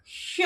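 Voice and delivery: श alone, a soft hushing "sha"; isolated SH sound. Shown as a demonstration. Teacher demonstrating tongue position to students, isolated soft "sha". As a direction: sound out श as one separate syllable. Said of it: "तो श आता है".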